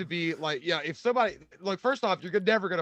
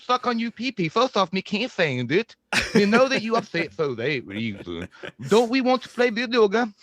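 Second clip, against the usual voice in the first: Slender Man; 3 semitones higher than usual. Acted. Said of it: "you should start doing Slender Man to people".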